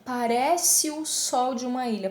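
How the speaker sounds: "parece o" blended, one vowel weaker; sinalefa. Shown as a demonstration. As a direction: glide the final E of "parece" into "o". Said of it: "uma das vogais acaba sendo mais fraca". ("parece o" ligado, uma vogal mais fraca)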